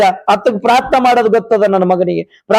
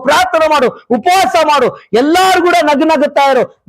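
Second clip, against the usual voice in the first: raised-pitch sermon urging; insistent preacher, voice lifted; exhorting preaching; 7 semitones higher than usual. Real, not acted. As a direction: urge the congregation on, phrase by phrase.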